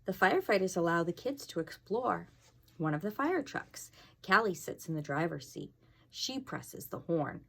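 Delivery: lively picture book reading; reading to children. A narrator's reading. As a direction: read it aloud to the class.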